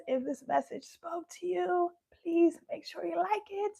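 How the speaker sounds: worn, strained voice; hoarse. Real, not acted. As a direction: voice giving out. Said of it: "I'm losing my voice".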